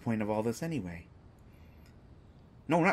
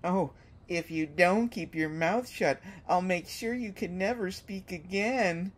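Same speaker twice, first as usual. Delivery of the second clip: mock menacing villain voice, pitched higher; mocking imitation; 5 semitones higher than usual. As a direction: parrot his threat back at him, a touch hammed-up.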